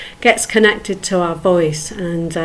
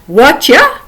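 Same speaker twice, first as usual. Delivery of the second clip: cheery greeting; 3 semitones higher, 4 dB louder than usual. Shown as a demonstration. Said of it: "Have a go, repeat it".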